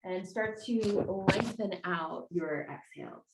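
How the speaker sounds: guided meditation. Real, not acted. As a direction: ease them into stillness with long pauses. Leads slow opening meditation.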